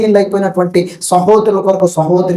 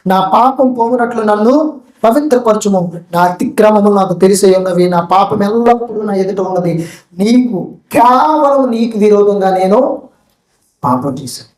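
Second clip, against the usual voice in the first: grieving plea; 2 semitones higher than usual. Acted. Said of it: "దావీదు దుఃఖపడుతూ".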